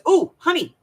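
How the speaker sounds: high, loud sugary honey; hammed-up sweet-talk before a favor; mock sweet husband. Husband sweet-talks his wife into a chore, mock sugary.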